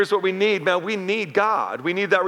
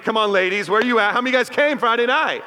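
raised, higher-pitched rallying call; rousing the crowd; 5 semitones higher than usual. Real, not acted. Preacher to ladies after a weak response, rallying. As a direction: push for a bigger response from the audience.

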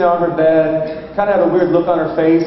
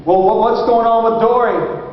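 put-on high, hesitant question to a child; coaxing father; 5 semitones higher than usual. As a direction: imitate a dad treading carefully. Father carefully questions daughter.

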